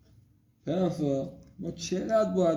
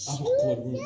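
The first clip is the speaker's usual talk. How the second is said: put-on squeaky baby voice; faster than usual. Father keeps squeaky toddler voice.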